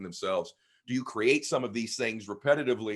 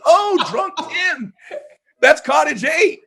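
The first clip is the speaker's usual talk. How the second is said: much higher, slow, sing-song lady voice; mock lady voice, high and slow, louder; imitating the lady; 10 dB louder, slower than usual. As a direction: put on a high, drawn-out voice for the lady. Imitating the orphanage lady's reply.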